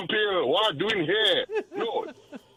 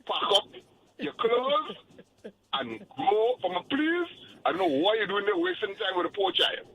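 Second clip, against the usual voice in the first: mock weeping; 5 semitones higher than usual. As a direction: whimper it like a pitiful child. Mock-weeping over the boyfriend.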